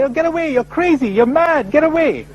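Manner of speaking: high, scornful brush-off; mocking dismissive crowd. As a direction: wave off the madman with a sneer. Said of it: "They say".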